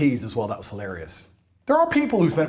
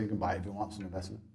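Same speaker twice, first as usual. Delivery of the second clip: offhand shrug; 10 semitones lower, 15 dB quieter, much faster than usual. Retold or imitated. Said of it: "I say".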